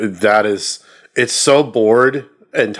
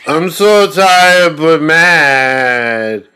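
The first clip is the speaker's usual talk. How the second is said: mock tired rage; 4 semitones higher, 4 dB louder, much slower than usual. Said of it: "imitating sleepy angry character".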